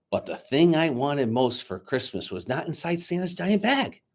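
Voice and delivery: lively read-aloud narration; storyteller reading a Christmas book aloud; story narration. A narrator's reading. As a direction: tell it to a room of children. Reads story aloud to children.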